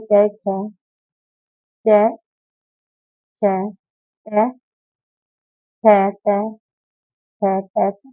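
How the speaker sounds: कै, खे, चे, छे, टे, थे, ते said in pairs with pauses; sounding out letters. Shown as a demonstration. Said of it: "अब हम दूसरा लिख लेंगे".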